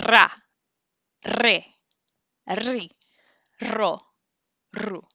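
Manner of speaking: "Ra, re, ri, ro, ru" with a stronger rolled r; rolled r syllables. Shown as a demonstration. Teacher demonstrates the double r for repetition. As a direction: roll the r harder on each syllable. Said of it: "say it a little bit stronger".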